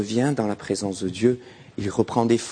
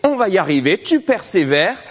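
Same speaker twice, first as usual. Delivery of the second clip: encouraging pep talk; 4 semitones higher than usual. Retold or imitated. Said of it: "Et de dire".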